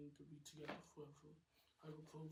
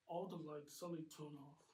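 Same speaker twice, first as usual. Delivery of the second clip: normal talking voice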